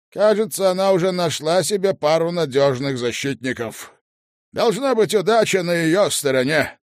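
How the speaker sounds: loud, firm lord over headset; commanding lord. Acted. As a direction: give stern orders, loud and clear. Lord Asriel speaking through headphones.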